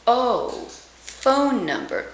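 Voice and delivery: "phone" with a tight, rounded oh; the proper "phone number"; tidy round oh; corrected vowel. Shown as a demonstration. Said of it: "we're going to say".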